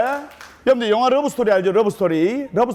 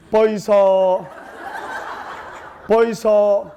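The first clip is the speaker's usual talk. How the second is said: Gyeongsang dialect bride; slower than usual. Retold or imitated. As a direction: call him out in thick Gyeongsang dialect, pitched up. Gyeongsang bride calls her husband.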